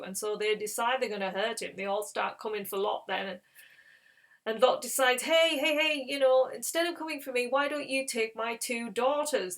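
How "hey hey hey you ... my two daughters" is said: raised, loud calling to halt a mob; urgent appeal. Retold or imitated. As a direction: grab their attention, then bargain. Lot calls out to mob.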